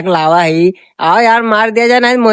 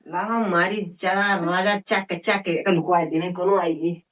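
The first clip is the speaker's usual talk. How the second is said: hushed; 3 semitones lower, 9 dB quieter than usual. Acted. Quietly lighting stolen bidi.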